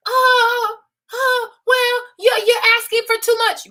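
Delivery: high, whiny mock excuse; a hint of a pouty young man; mocking whiny boy. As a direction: whine like a defensive excuse-maker. Mocking complaining boys.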